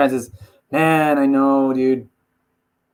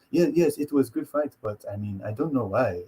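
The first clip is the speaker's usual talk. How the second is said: Ngannou; 2 semitones lower, 7 dB quieter than usual. Retold or imitated. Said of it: "He's like".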